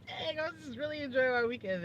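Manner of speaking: high, laughing groan of disappointment; laughing dismay. Retold or imitated. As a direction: moan it through a laugh. Retold dismay at a ruined weekend.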